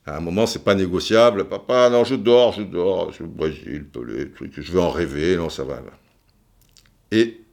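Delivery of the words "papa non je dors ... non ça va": fading into sleepy mumbles; a kid sinking back to sleep, voice drifting off; drowsy mumbling. Retold or imitated. Half-asleep kid mumbling to dad.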